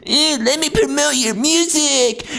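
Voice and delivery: high, mock-hustler voice; a cheesy promo-page pitch; mocking scam page. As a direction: sneer it like a fake promoter. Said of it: "they're like".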